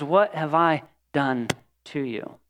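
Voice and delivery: abandoned lover asking Israel, soft and anguished. Acted. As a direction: ache through each word, slowly and softly. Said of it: "see the anguish in his eyes".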